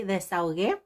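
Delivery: desahogué said in Spanish, stress on the last syllable with a rise; Spanish word of the day. Shown as a demonstration. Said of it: "Word of the day".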